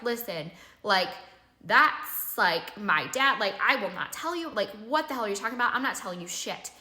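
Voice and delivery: heated, defensive retelling of a blowup; flipping out. Retold or imitated. Refusing the investigators' questions about her dad, mildly heated. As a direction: push back hard, mostly in her own voice. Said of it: "So I start flipping out".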